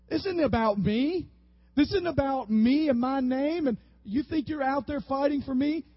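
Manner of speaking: God telling Joshua to get up off his face; God rebuking. Retold or imitated. God scolding Joshua lying face down, in a firm loud rebuke. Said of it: "The Lord said to Joshua".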